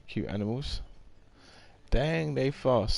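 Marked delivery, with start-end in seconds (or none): 1.9-3.0 excited. Real, not acted. Game units speed off.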